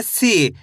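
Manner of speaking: "सी" stretched on a falling ee; long ee. Shown as a demonstration. Teacher joins sa and ee, long falling "सी". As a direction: draw out the ee in "सी". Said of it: "खींच के पढ़ा जाता है".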